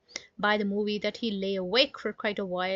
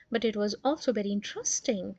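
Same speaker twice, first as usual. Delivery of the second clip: puzzled; faster than usual. Acted. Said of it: "in a puzzled voice".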